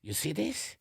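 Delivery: put-on German papa calling the children over; German accent. Father calling children over to show them something, German accent.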